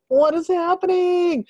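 high, slow, baffled; confused surprise. Retold or imitated. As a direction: stretch it out, totally lost. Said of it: "And I'm like".

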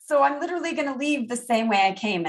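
high, quick mock-distraught wail; imitating tearful distress. Retelling despair at the only doctor on call, high distressed. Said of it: "And I'm crying".

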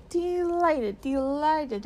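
high-pitched delight, easing down on the repeat; delighted greeting. A narrator's reading. Faun warmly greets Lucy in story.

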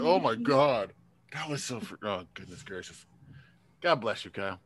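after laughing hard. Real, not acted. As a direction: catch your breath after a laughing fit. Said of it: "my cheeks hurt".

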